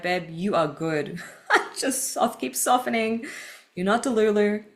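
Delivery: playful voice of your own soul comforting you; soothing inner voice. Acted. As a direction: talk yourself down gently, half laughing. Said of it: "the soul level gnosis telling me".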